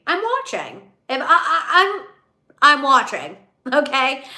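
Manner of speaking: giggling through the words; laughing. Real, not acted. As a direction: laugh as you say it. Laughing while repeating herself.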